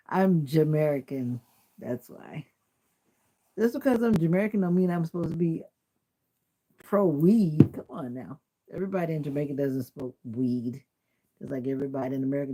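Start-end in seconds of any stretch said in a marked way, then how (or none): 0.1-7.7 emphatic protest. Real, not acted. Defends herself to chat.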